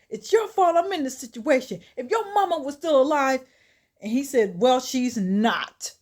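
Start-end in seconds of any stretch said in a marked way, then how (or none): 0.1-3.4 loud, high acted blame; indignant mock retort; snapping back. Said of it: "Dennis snaps back and says". 4.6-5.9 loud, slow, emphatic rebuttal; acted exasperated comeback; curt angry retort. Kendrick cuts his father off angrily.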